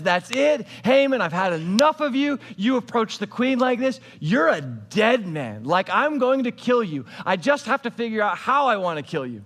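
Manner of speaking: understated angry threat; mild retold anger. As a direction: lightly act out the king losing his temper. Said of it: "now he is super mad".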